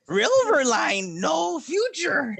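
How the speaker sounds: high, loud mock proclamation; mock dramatic. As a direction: ham it up like a movie tagline.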